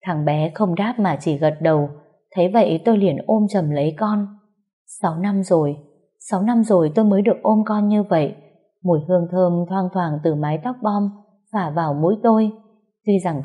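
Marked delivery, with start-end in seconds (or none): none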